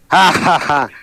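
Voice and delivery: demonic laugh. Retold or imitated. Storyteller imitates the demon's laugh on the radio, mock evil laugh. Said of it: "Se reía de esa manera".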